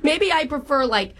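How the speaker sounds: hammed-up Long Island-Boston-Minnesota mom accent; old Jewish mom accent jumble; horrible jumbled accent. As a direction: play a chatty older girlfriend in a bad regional accent mash-up. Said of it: "doing a horrible accent".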